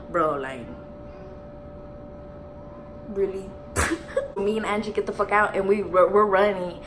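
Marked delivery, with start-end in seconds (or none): 3.6-4.3 short, high wheezy laugh; high, voiceless giggle; breathy laugh. Real, not acted. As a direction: break into a quick airy laugh. Laughs while telling the story.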